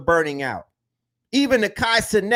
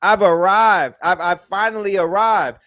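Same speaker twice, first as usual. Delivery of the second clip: retold exuberance, swelling louder; enthusiastic; 4 dB louder than usual. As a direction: relive the thrill of having arrived, growing louder. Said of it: "we were so enthusiastic".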